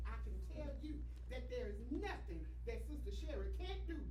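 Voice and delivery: loud, emphatic church testimony; preaching testimony. Real, not acted. Testifies to congregation at raised volume.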